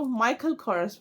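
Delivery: माइकल कोरस as MY-kul KOR-us; two syllables in कोरस, short last vowel; variant brand pronunciation. Shown as a demonstration. Vlogger ending the list of brand readings, variant pronunciation. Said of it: "कई लोग इसको ... बोलते हैं".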